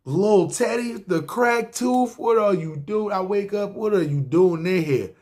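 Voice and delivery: put-on high, delighted call to an old friend; surprised greeting. Narrator greets Teddy in the cell, high and delighted. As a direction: shout across, thrilled to see him.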